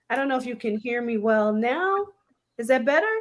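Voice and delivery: garbled robotic connection sound; robotic audio glitch. Real, not acted. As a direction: voice warped by a bad line. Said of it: "you're still robotic".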